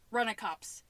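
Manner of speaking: imitated disgust, building to a loud strain; voice-straining quote. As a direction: push the second line until the voice strains. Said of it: "losing my voice just saying that".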